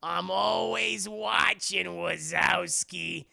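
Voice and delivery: very slow drawl building to a loud ending; imitating the sassy slug secretary; creepy slug secretary. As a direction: drag it out, then belt the last line. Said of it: "what she always go?".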